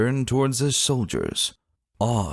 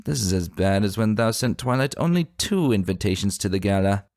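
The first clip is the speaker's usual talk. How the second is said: smiling, teasing; 2 semitones higher than usual. Acted. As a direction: tease her sister with a smile. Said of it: "smiling to herself as she spoke".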